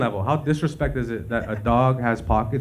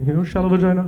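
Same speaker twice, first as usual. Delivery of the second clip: higher and louder ha-ha taunt; mocking jeer; 7 semitones higher, 3 dB louder than usual. Corrected schoolyard jeer, higher mock taunt. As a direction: laugh it out as a taunt. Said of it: "I should have been like".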